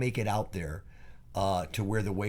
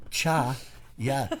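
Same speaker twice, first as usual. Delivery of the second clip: surfer dude voice; 4 semitones higher than usual. Retold or imitated. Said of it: "talking like a, like a surfer dude".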